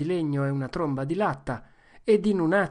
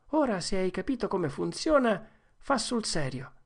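put-on higher, brisk boyish command; eager urging; 6 semitones higher than usual. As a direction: push the fight on. Tom urges during fight. (Tom incita Joe, tono acceso)

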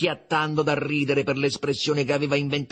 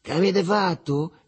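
raised, drawn-out question; moderately loud, higher-pitched shout; 7 semitones higher, 4 dB louder than usual. A narrator's reading. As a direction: cry out the question in storytelling. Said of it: "gridò il Riccetto".

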